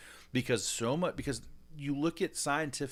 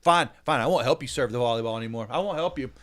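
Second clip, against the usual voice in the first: louder, sulky fine fine; pouting like a kid; 9 dB louder than usual. Retold or imitated. Dad sulking at his daughter after volleyball, loud and pouty. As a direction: sulk it out like a ten-year-old. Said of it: "I'm pouting".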